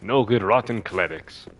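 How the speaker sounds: put-on slow, lightly Scottish-accented Patches grumble. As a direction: drag it out in a mock Scottish accent, spitting on clerics. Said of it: "I gave him a Scottish accent".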